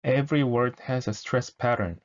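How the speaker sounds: every word spelled out slowly with EVERY stressed; 천천히 또박또박 시범 읽기; slow demo read. Shown as a demonstration. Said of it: "대사가 이런데".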